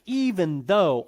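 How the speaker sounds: slow, stressed "even though"; emphatic. Shown as a demonstration. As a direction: lean slowly on both words of "even though". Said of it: "there it's very emphatic".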